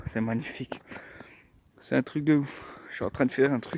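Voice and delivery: soft, awed murmur; quietly marvelling at the snow; hushed. Real, not acted. Hushed awe in snowy woods.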